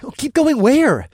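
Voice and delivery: baffled, looking around for where; confused question. Acted. Alex confused by the order.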